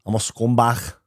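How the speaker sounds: throaty Scouse ending on "scumbag"; Scouse accent attempt. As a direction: try it like a Liverpudlian. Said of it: "your Scouse accent attempt".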